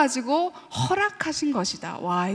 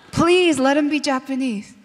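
louder, more urgent plea; pleading prayer; 3 dB louder, much slower than usual. Retold or imitated. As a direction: imitate a desperate prayer, slow and drawn out. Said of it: "뭐라고 기도한지 아세요?".

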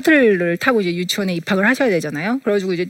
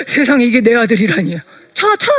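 proud disbelief at her son; stunned, rising wonder; astonished gasp; 3 dB louder than usual. Retold or imitated. Mother amazed at son.

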